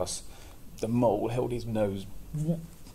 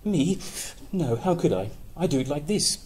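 higher, louder quick hare; 7 semitones higher, 5 dB louder than usual. Acted. Hare answering the mole, high and excited. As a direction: squeak it out like a jumpy hare. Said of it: "answered the hare".

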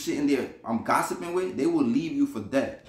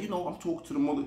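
quick, lowered storyteller voice; imitating friend's talk; 2 semitones higher, 5 dB quieter, faster than usual. Friend narrating his story to the speaker, imitated quickly. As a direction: mimic his fast, quieter way of talking. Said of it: "'cause this is how he talk".

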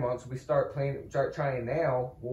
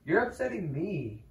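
hammed-up distress breaking into laughter; mock upset; 7 semitones higher, 7 dB louder than usual. Boyfriend teasing his girlfriend, mock distress with laughter. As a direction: pretend to be about to cry, laughing.

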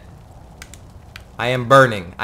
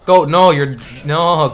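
loud warning; 2 semitones higher, 7 dB louder than usual. Real, not acted. Scolding goat heading to danger.

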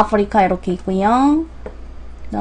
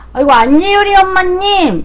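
happy surprise; 6 semitones higher than usual. Real, not acted. Greeting returning viewer.

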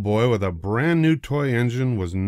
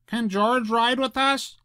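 put-on high, eager little boy voice; excited child; 13 semitones higher than usual. A narrator's reading. Excited little boy asking his father. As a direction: ask eagerly, bouncing. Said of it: "The little boy was excited".

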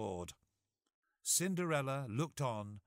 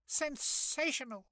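high, thrilled fairy cry; delighted exclamation. Acted. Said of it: "exclaimed the fairy godmother".

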